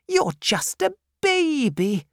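a severe aunt demanding at the door; stern old aunt. Acted. Miss Betsy voiced.

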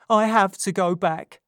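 urgent Nancy. A narrator's reading. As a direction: confess it as if your life depends on it. Nancy firm.

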